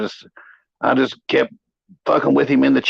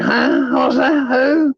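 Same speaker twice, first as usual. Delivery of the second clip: higher, bewildered questions; mock confused stoner, voice pitched up; dazed confused mumble; 10 semitones higher, much slower than usual. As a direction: imitate a spaced-out guy snapping back. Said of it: "He's like".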